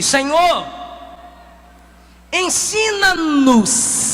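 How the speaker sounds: slow humble plea, stretched out; súplica lenta. Acted. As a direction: beg gently and slowly. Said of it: "lhe disse". (súplica humilde e arrastada)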